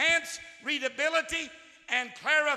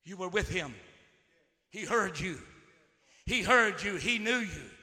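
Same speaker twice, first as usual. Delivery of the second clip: tender; 5 semitones lower than usual. Acted. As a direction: speak it gently to each listener. Soft intimate turn.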